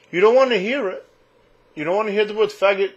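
loud, high mocking jab; sarcastic put-down; scornful. Real, not acted. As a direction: throw it back at them. Ranting at offended listeners.

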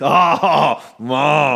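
long, loud drawn-out gasping ah; mock shocked groan, drawn out. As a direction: let out a slow stunned ah. Imagined shocked reaction, drawn out.

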